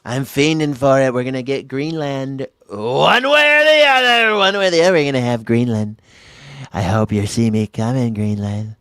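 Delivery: hammed-up Trump bluster; brash Trump riff, punching the repeats; Trump impression. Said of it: "You've been hanging out with Donald Trump a lot".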